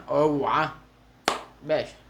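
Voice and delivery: short, loud yell; shouted warning. Real, not acted. Player at the garage yelling look out, shouted warning. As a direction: call out sharply to clear the way.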